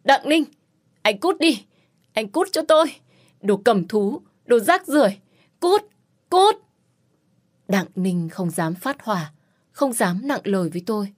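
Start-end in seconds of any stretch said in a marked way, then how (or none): 0.0-6.5 a woman screaming at the man who hurt her; agitated shouting. Acted. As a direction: yell him out of the room, furious. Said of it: "Tôi kích động la hét".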